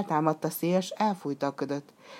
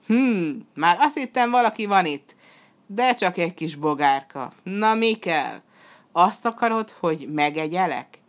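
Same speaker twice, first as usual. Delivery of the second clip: loud, raised, taunting threat; acted contemptuous monster; scornful demon; 3 semitones higher, 4 dB louder than usual. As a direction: belittle the tiny intruder, then threaten. Demon sneers at the small hero.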